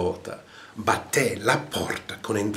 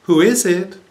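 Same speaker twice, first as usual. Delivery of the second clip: high, louder parrot call; 9 semitones higher, 7 dB louder than usual. A narrator's reading. Parrot calling out to the plumber at the door, high call. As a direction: squawk it like a parrot. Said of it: "And the parrot called out".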